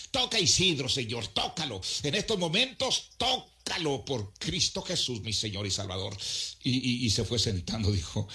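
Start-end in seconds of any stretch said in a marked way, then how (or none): 0.1-6.2 higher, calling prayer for healing; fervent prayer. Retold or imitated. Preacher praying over a despairing young man, fervent calling prayer. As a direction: call on the Lord to touch him.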